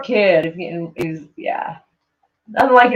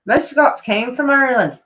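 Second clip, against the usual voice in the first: higher-pitched attempt at a Scottish accent; 6 semitones higher than usual. Shown as a demonstration. Streamer retrying a viewer's comment in a wobbly Scottish accent. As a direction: try Scottish, with a risk of Irish. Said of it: "Good attempt".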